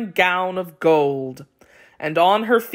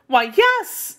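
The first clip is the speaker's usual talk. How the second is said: much higher, startled yes; surprised; 12 semitones higher than usual. A narrator's reading. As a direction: gasp out the answer in disbelief. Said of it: "said Cinderella with surprise".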